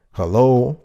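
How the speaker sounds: playful loud hello to the viewers; calling out to the audience. Shown as a demonstration. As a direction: call out as if nobody answered. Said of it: "this is kinda quiet".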